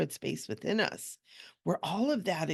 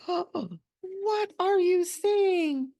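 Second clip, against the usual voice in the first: high, slow, drawn-out fake gasp of disbelief; mock shocked; 13 semitones higher, 4 dB louder, much slower than usual. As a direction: play it as a hammed-up shocked protest. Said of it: "And I'm like".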